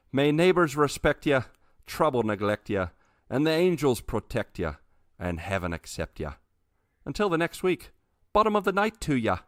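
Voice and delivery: put-on outro in a light Irish accent. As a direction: read the blessing in an Irish lilt. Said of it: "redo that and say it in a Irish accent".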